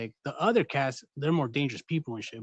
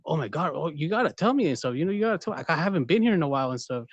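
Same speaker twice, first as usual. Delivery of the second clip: mock shocked; faster than usual. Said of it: "It's like".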